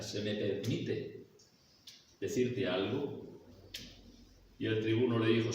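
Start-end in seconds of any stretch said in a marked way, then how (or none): 0.0-3.4 slow, courteous demo of asking; polite request, slowed. Shown as a demonstration. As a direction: lay out each word of the polite ask. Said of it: "pida permiso de esa manera". (petición cortés, lenta y pausada)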